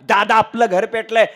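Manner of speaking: loud, insistent mock lament; tearful third son. Third son insists to father the house burns, loud lament. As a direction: press the bad news loudly on dad. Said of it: "तिसरं पोरग रडतच आलं".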